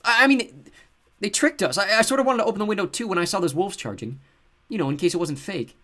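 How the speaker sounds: high, stammering through sobs; sobbing. A narrator's reading. Seth sobbing to his sister about the window. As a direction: choke the words out crying. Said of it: "he sobbed".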